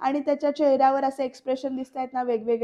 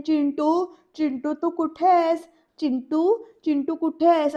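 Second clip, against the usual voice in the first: calling from another room, higher and louder; 4 semitones higher, 4 dB louder than usual. Retold or imitated. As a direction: call out looking for him. Anjali बाहेरून हाक मारते. (बाहेरून मोठ्याने हाक मारणं)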